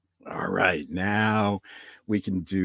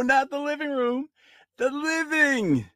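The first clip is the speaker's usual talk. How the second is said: put-on old grandpa voice; 14 semitones higher than usual. Grandpa ghost voice.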